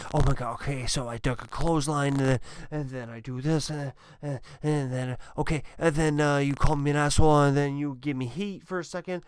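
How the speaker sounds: fast, scattered mock inner monologue; hurried imitation of a nervous wrestler rehearsing his match; frantic wrestler in his head. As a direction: rattle off the spots like a panicking wrestler. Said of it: "go crazy, going in their head".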